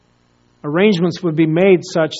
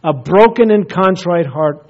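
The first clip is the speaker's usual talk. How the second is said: pleading cry; 2 semitones higher, 5 dB louder than usual. Retold or imitated. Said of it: "And he cried out".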